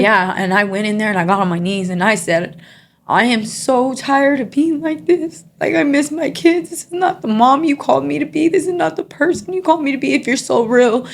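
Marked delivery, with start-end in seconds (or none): 3.1-11.1 retold yell at God. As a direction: plead on your knees, voice raised high. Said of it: "I yelled at God".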